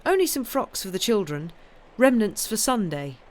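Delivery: airy. Acted. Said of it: "said Anne airily".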